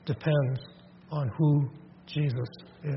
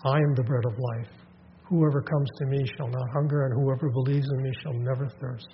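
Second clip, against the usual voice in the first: tender; 3 semitones lower than usual. Shown as a demonstration. Jesus answering the doubting crowd, tender and gracious. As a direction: offer it like a gift of grace. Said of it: "a word that's drenched in grace".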